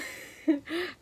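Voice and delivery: brief, high delighted laugh; quick pleased laugh; short laugh. Real, not acted. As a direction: let out a little laugh. Laughs at the box's contents.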